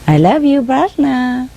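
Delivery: imitating a parrot. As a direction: coo it high, as the bird would. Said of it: "She say like that".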